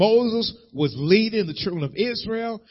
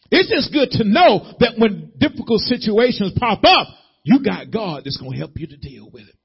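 high, loud rising whoop over music; preaching at full force; 6 semitones higher, 6 dB louder than usual. Acted. Preacher climaxing to his church over music. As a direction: let the sermon build and lift.

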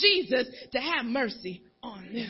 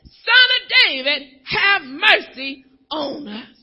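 crying out; 6 dB louder than usual. Retold or imitated. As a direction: cry it out, begging for mercy. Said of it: "they cried out loud saying".

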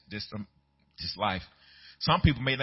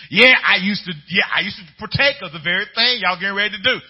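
higher, louder, insistent testimony; emphatic reply; 6 semitones higher, 9 dB louder than usual. Retold or imitated. Believer telling old drinking friends, loud and insistent. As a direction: declare it loud and proud.

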